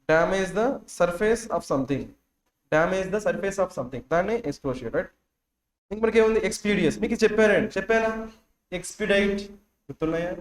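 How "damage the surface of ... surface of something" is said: very slow, word by word, for writing down; dictating at half speed; slow dictation. Shown as a demonstration. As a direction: spell it out slowly so they can copy. Teacher dictating meaning to students.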